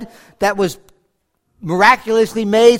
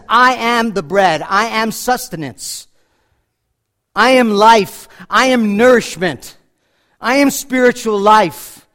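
louder, slow, hammering each I am; emphatic preaching; 5 dB louder, slower than usual. Acted. Preacher to congregation, declaring Jesus' words with force. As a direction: proclaim it like a pulpit climax.

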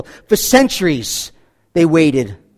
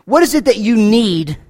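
ordinary talk

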